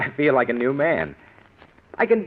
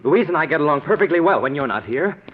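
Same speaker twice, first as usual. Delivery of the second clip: fast, louder, exasperated outburst; temper flaring; 3 semitones higher, 3 dB louder than usual. Acted. Son-in-law loses patience with mother-in-law, heated outburst. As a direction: finally snap back at her. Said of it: "what a temper he has".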